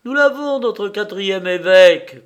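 high, loud exclamation of triumph; excited countess crying out. A narrator's reading. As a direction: cry out the good news, thrilled. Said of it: "s'écria-t-elle".

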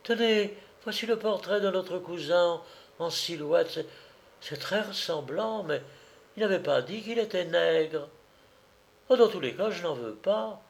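put-on high-pitched young fiancée protesting; plaintive Estelle. Estelle showing papa the cousin's portrait, plaintive.

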